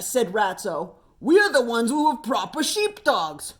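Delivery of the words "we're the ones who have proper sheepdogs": lightly voiced grumpy shearer. Ratso voiced as character.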